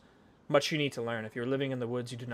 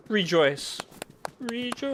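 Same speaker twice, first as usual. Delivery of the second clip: each rejoice higher and louder; rising rejoice; 11 semitones higher, 8 dB louder, much slower than usual. Shown as a demonstration. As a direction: climb up with every rejoice. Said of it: "can hear my lovely voice".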